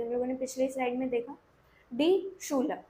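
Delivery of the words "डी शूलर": "डी शूलर" with a श sound; model pronunciation. Shown as a demonstration. Teacher repeats the word after explaining final ई, model pronunciation. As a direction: say "शूलर" with an unstressed अ ending, falling. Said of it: "तो इसको शूलर पढ़ेंगे।".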